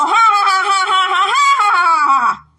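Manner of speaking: hammed-up fake laugh; mock laughter. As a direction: spell out a circus crowd laughing, mocking. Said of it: "un circo donde solo se estén riendo".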